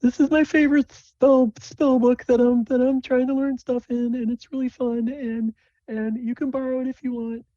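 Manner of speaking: very high, squeaky-voiced eager friend; excited Sable. Sable shows off a favorite spell book, excited high voice. Game master plays Sable.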